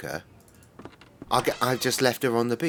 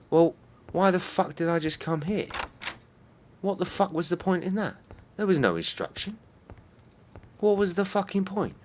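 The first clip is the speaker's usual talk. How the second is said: higher-pitched fed-up ranting; exasperated outburst; 8 semitones higher than usual. Real, not acted. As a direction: rant at the game, baffled and fed up. Annoyed at pointless game step.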